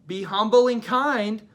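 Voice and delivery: high, slow, drawn-out mock nagging; preachy do-gooder. Someone telling a cranky Cooper to behave, mock preachy. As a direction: mimic someone sweetly telling you to behave. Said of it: "someone coming up to being like".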